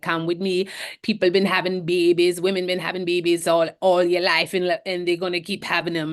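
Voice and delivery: lightly imitated Jamaican woman; Jamaican accent. Caribbean hospital woman to a panicking patient, light Jamaican accent. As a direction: put on a hint of a Jamaican lilt. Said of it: "in the same Jamaican accent".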